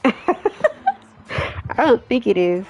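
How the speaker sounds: slow, drawn out through laughter; cracking up while voicing a character; laughing. Real, not acted. Player voices a reply about hookah, breaking up laughing.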